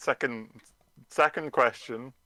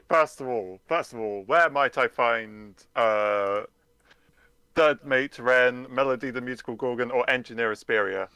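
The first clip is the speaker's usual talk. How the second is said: low investigator voice; 4 semitones lower than usual. Acted. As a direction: play it as a grave investigator. Detective grilling in character.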